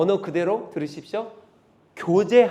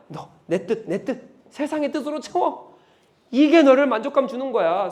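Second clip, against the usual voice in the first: voice of Satan; 2 semitones higher, 5 dB louder than usual. Acted. Preacher voices Satan's accusing words.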